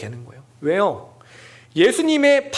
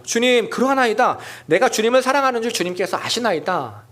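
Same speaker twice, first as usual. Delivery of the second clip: higher, louder, startled answer; startled reply; 5 semitones higher, 3 dB louder than usual. Acted. Startled Peter answering Jesus, raised and louder. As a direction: blurt it out in surprise.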